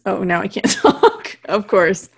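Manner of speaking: breaking into a laugh mid-complaint; slow, amused exasperation; trying not to laugh. Real, not acted. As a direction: laugh through your own flub. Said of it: "Don't make me laugh".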